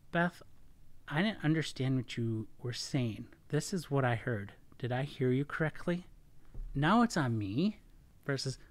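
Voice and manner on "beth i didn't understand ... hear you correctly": calm, honest clarifying question; non-attacking, even-voiced asking; relaxed, open. Shown as a demonstration. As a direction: check what you heard without judging. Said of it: "I'm more relaxed. I'm more open".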